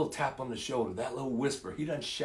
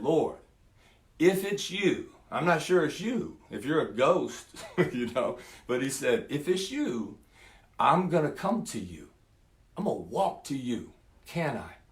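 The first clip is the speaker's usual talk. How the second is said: higher, eager hopeful asking; eager Peter; 3 semitones higher than usual. Acted. Peter calling to Jesus from the boat, eager hopeful plea. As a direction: ask with nervous excitement.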